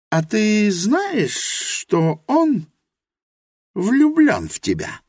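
put-on high, earnest young woman's voice, slow at first; Helena's voice. A narrator's reading. Helena admits her ignorance to Rosa, high and earnest. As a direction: confess humbly in Helena's high voice.

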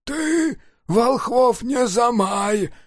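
slow, strained lost-voice protest; wheezing. Acted. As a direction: croak it out with a voice worn by shouting. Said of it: "сипел Плоскыня".

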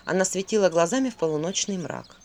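ordinary delivery, nothing marked

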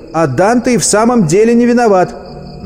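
high, insistent defence; твёрдый ответ. A narrator's reading. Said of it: "твёрдо ответила девушка". (настойчивое возражение высоким голосом)

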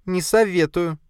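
high spider voice, a curt warning. Acted. Spider warns her master against going, high voice. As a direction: warn him off in the spider's voice.

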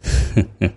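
soft, breathy little chuckle; short chuckle. A narrator's reading. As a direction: let out a brief, quiet laugh. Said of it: "Saki bật cười".

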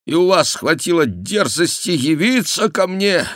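высоко и громко, нарастающий гнев; обрушься на гостя с яростью; гневный крик. A narrator's reading. Барон гневно обвиняет Бюсси. (барон в гневе кричит на Бюсси)

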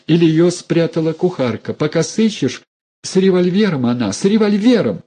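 high, wailing plea; begging him to flee, voice climbing high; wailing pleading woman. A narrator's reading. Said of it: "Запричитала Алевтина". (причитающая женщина, высокий плачущий голос)

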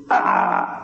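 low, drawn-out "aah", imitating a victim's cry; retold cry, held low without shouting; imitated scream. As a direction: imitate a dying man's low groan. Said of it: "y un grito".

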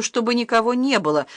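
a mild hammed-up shout, stress on не; sudden shout. Boy suddenly crying out at his stepmother, mild shout. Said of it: "вдруг закричал Илья".

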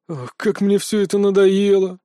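weary sigh. Acted. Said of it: "обречённо вздохнул Локи".

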